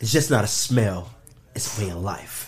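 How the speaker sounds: whisper-sell a way of life; perfume ad voice. Pretend. Mock cologne ad.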